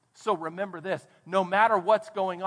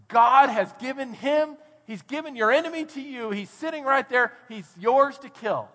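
urgent urging; 4 semitones higher than usual. Retold or imitated. David's men urging him that his enemy is his, urgent.

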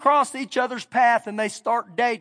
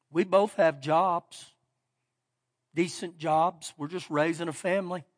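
tearful, softly; 5 semitones lower, 6 dB quieter than usual. Retold or imitated. Young husband telling the pastor his story, softly tearful. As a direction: let it come out hushed through tears. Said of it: "He has these tears coming down".

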